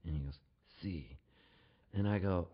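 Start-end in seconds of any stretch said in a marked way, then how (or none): 0.8-1.2 mock tough cop. Federale confirms it is pot.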